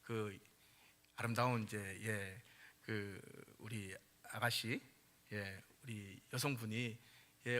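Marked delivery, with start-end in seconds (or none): none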